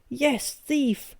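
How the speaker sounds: high roared retort. A narrator's reading. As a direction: roar it at him. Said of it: "I roared".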